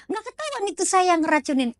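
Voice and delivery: high-pitched worried check from the plotter; anxious question. Acted. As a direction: seek reassurance from the healer. Client checks she will stay undetected.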